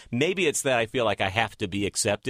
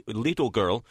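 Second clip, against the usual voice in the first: slight slip into mock Russian accent; touch of a put-on Russian accent; bad Russian accent. Host slips while asking about childhood, light Russian accent. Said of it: "I want to do a bad Russian accent".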